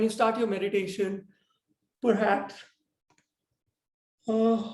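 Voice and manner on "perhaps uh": words stretched by a yawn; talking through a yawn. Real, not acted. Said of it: "sorry, I'm yawning a lot".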